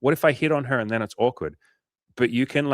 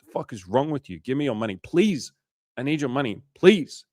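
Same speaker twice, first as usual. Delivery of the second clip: mock pushy salesman; 4 semitones higher than usual. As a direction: play a pushy salesman badly harassing a client. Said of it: "Imagine if I called you guys fifteen times and I was like".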